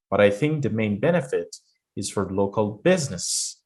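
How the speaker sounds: businesses falls at the end; falling tune. Shown as a demonstration. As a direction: let businesses fall, teacher demo. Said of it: "So she falls here".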